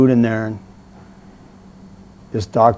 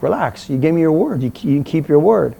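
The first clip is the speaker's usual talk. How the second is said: higher-pitched annoyed comeback; pissed-off retort; 5 semitones higher, 3 dB louder than usual. Retold or imitated. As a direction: retell it as an indignant protest. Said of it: "I was pissed off".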